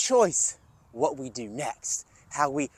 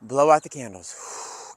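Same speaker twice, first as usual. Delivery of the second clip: calm exhale cue; 5 semitones lower, slower than usual. Shown as a demonstration. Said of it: "take three deep breaths".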